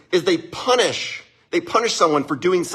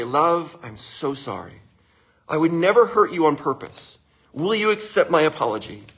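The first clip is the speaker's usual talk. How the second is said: earnest, understated plea for forgiveness; sincere apology. Shown as a demonstration. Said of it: "Just like that".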